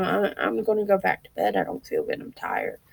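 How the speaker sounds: fading to a weary whisper; drained, barely getting the words out. Retold or imitated. Telling her daughters she's going back to bed, worn out and quiet. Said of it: "I almost told my girls".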